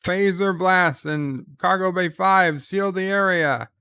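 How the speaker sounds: mild retold yell. Odo orders the cargo bay sealed, mild mock yell. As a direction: call orders to all personnel, half-shouted. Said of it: "Odo yells".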